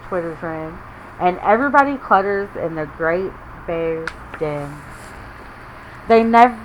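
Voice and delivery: put-on lively read-aloud to children; story reading. A narrator's reading. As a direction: read it like a picture book for little ones. Reading picture book to kids.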